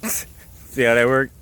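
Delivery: drawn out, laughing through it; slow laughing catchphrase. Real, not acted. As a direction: laugh and stretch the words slowly.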